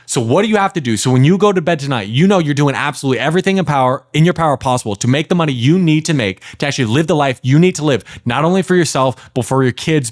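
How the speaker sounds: intense, driving push with punched key words; daddy's-home energy. Shown as a demonstration. Coach pushes client to provide for the kids, forceful and direct. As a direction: press hard, like a stern parent taking charge. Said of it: "it's daddy's home energy".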